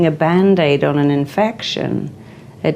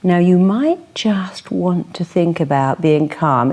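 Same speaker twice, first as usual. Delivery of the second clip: a mild send-up of a dull calm-down script; mock bland therapist; slower than usual. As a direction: imitate a limp therapist suggestion. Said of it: "people who say things like".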